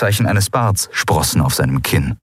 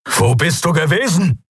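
high-pitched angry bark; barked question; 9 semitones higher than usual. A narrator's reading. Father confronts his returned daughter, barked. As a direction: bellow it like an outraged father. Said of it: "bellte er".

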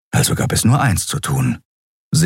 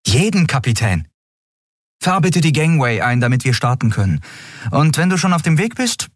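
put-on higher, brisk young woman's voice; young captain Andriel; 9 semitones higher, faster than usual. A narrator's reading. Captain explains to her crew, lively and quick. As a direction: lift it up and push on briskly.

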